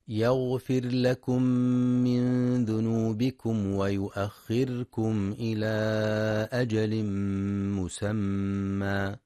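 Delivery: slow, measured tajweed chant; Quran recitation. Acted. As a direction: recite the verse with elongated vowels.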